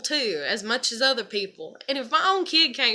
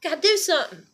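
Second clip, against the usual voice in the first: higher, louder mock excitement; mock hyped-up whoop; 6 semitones higher, 5 dB louder than usual. Mocking people who love drama, with a mock excited whoop. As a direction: ham up the eager thrill-seeker. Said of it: "It doesn't make me".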